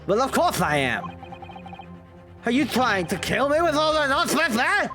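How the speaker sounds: whiny street peddler voice; gossip voice. Acted. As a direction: act the shifty peddler. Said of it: "I love your gossip voice".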